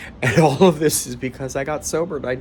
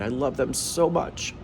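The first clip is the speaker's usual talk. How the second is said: ordinary talk, nothing marked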